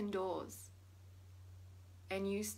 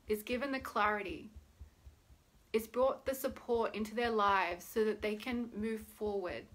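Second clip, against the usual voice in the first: prayer; 4 dB quieter than usual. Acted. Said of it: "say a quick prayer".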